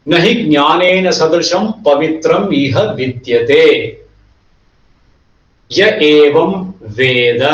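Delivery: rapid, rhythmic Sanskrit verse recitation; fast traditional shloka recitation; scripture recitation. Acted. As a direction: rattle off the verse like a practised chant. Teacher recites Gita verse.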